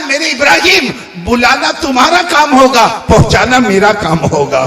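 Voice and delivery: stately proclamation, pitch falling at the close; voice of Allah. Retold or imitated. Allah answers Ibrahim about the birds, solemn proclamation. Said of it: "اللہ کی طرف سے جو آواز آئی".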